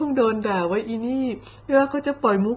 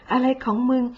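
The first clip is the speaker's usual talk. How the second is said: exasperated repeat; 2 semitones higher than usual. Retold or imitated. Imitating a baffled viewer, now openly exasperated. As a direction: repeat อะไรของมึง with open exasperation.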